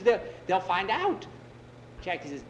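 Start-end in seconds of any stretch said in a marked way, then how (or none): 0.0-1.3 halting, louder and higher; slow, scared raised voice; fearful warning. Acted. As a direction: stammer it in acted dread. Frightened man fears his brothers.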